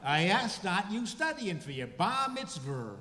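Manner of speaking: put-on high, loud old Maine Jewish grandfather accent, slowing at the end; playful nostalgic imitation of a Maine Jewish grandfather accent; grandfather's Maine Jewish accent. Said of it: "that's a Jewish accent".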